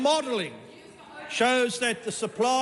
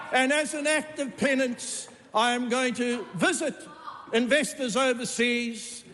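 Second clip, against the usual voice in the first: raised, declaiming voice; 2 semitones higher than usual. Acted. Mock penance boast in parliament.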